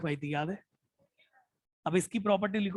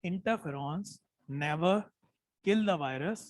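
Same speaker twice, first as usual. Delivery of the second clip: slow dictation; much slower than usual. Shown as a demonstration. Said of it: "मैं जानबूझ के धीरे बोल रहा हूँ".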